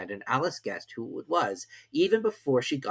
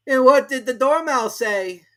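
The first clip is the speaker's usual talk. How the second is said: high, slow question; a juror asks; curious juror; 14 semitones higher, 10 dB louder, slower than usual. A narrator's reading. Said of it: "one of the jurors asked".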